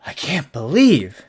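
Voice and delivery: imitating an appalled juror; stunned juror. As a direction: play a juror shocked by the evidence. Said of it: "really make people like".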